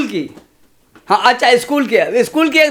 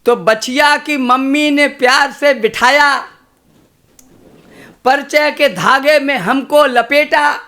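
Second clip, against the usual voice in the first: measured, rhythmic stage recitation of a poem; slower than usual. Acted. Poet reciting verse to a kavi sammelan crowd, rhythmic. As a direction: recite to the audience with a steady beat.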